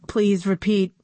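flat computery commanding voice; robot voice. Acted. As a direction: bark it out like a machine. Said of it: "in a computery voice".

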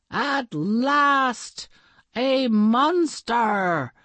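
slow, grand hero voice; heroic Goat Avenger. Acted. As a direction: proclaim it like a caped hero. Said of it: "said the Goat Avenger".

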